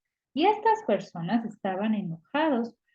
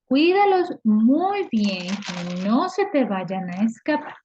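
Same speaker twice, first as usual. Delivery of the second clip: stern loud order; 4 dB louder, slower than usual. Acted. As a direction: bark it out like a strict official. Orders jailer to guard prisoners. (orden fuerte y lenta al carcelero)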